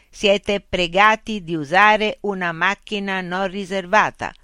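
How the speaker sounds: a dashboard speaker rejecting the intruder; protesting car loudspeaker. Acted. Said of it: "un altoparlante nel cruscotto protestò".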